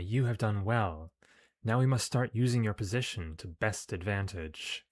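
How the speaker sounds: measured British villainess; deliberate command in a British accent. Acted. Commander praises and directs her agent, British accent. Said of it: "I gave her a British accent".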